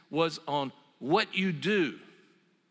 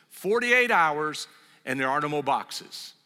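louder, mock-proclaimed house rule; emphatic retold decree; 5 dB louder than usual. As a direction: lay down the law as the wife, playfully. Voicing wife's new moving rule.

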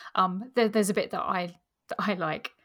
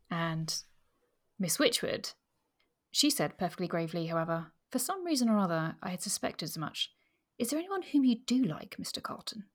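measured audiobook reading with lightly voiced dialogue; story narration. A narrator's reading. Host reading a favourite passage to her co-host, story narration. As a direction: read the novel aloud, keeping the characters understated. Reads a novel passage aloud.

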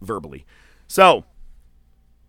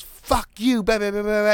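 high, loud imitation of a ranting woman; mocking high-pitched yapping; mock angry tirade; 13 semitones higher, 5 dB louder than usual. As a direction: mimic her mouthing off in a high pitch.

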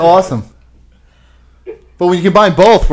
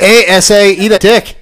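jokey Puerto Rican accent put on, just a touch; quick Puerto Rican accent for a laugh; mock Puerto Rican accent; 2 semitones higher than usual. On the podcast, joking with callers in a Puerto Rican accent. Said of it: "I just did one of the Puerto Ricans".

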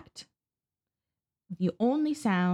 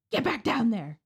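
mild mock yell, pitched higher; retold shout; 4 semitones higher than usual. Harvey shoving the girl below deck, mock shouting. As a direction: bark the order without full volume.

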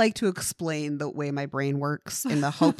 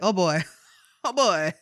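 laughing swoon; 9 semitones higher, 4 dB louder than usual. Retold or imitated. Swooning over a fictional hot man.

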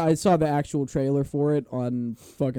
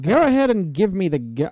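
louder copy of mock British delivery; lightly echoed character voice; 3 semitones higher, 5 dB louder than usual. Co-host copying the friend's movie imitation, exaggerated British character voice. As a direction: echo the friend's film impression. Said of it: "He's doing that the whole time".

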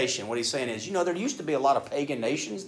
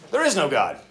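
mock atheist; 2 semitones higher, 8 dB louder than usual. Preacher voicing the atheist.

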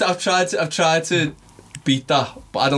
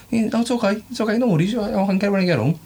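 acting gutted; 5 semitones higher, faster than usual. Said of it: "acting a bit gutted".

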